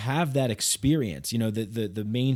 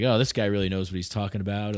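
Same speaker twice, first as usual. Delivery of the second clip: sarcastic; faster than usual. Retold or imitated. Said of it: "I started being sarcastic".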